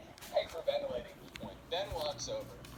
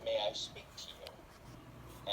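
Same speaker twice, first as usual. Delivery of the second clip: stern mom; 5 semitones lower, much slower than usual. Acted. Stern mom confronts son.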